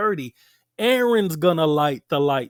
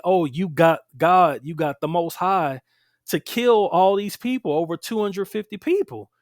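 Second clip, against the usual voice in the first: louder, rising complaint of the people; mock accusation; 4 dB louder than usual. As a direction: voice their accusing protest, mildly heated.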